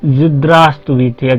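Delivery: Здравствуйте drawn out very slowly, syllable by syllable; slow model word. Shown as a demonstration. Teacher modeling Здравствуйте slowly for students. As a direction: say Здравствуйте slowly for learners to copy. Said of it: "ऐसे बोलिएगा".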